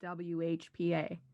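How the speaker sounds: slow, careful spelling-out of acronyms; deliberate letter-by-letter delivery; incredibly slowly. Real, not acted. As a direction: take each letter one at a time. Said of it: "gonna say it incredibly slowly".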